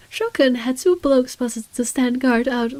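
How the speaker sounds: halting, slow attempt at British; bad British accent. Player reluctantly tries reading in a bad British accent. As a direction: try a clumsy British accent. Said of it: "I don't know how to do a British accent".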